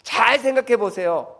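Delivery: neighbor's advice. Retold or imitated. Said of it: "옆에 사람이 대신 깨달아서 대신 얘기해 주는 거야".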